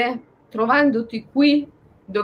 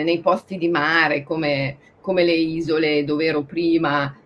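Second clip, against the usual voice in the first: usual speaking voice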